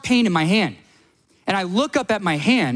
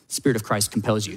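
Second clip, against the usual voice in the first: mock exorcist; 8 semitones lower, 3 dB quieter than usual. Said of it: "I'm like".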